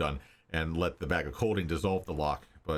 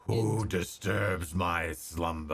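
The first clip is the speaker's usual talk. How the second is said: slow, booming dragon; slower than usual. Acted. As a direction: rumble it out like a waking dragon. Dragon wakes in its lair.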